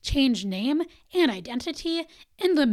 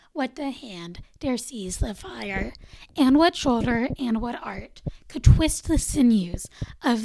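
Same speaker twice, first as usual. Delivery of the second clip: poem recital; 2 semitones lower than usual. Acted. Podcast host reciting Blake's The Tiger, solemn and rhythmic. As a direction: let each line land like an incantation.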